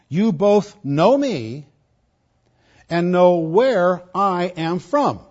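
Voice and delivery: slow, loud proclamation of Jesus' words; cried out. Acted. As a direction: call it out slowly to the crowd. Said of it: "Then Jesus cried out".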